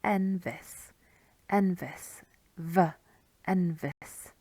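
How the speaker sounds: "Enfys" with stress on EN and F said as V; Welsh name demonstration. Shown as a demonstration. Teacher repeating a name for learners, stressed "Enfys" with a V. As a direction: sound out "Enfys" slowly, leaning on the first syllable. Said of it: "on the second to last syllable".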